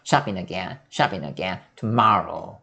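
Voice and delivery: shopping again run together as "shapinagen", low; linked in one go. Shown as a demonstration. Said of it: "그냥 한 번에 갈게요". (shopping again을 낮게 한 번에 이어서)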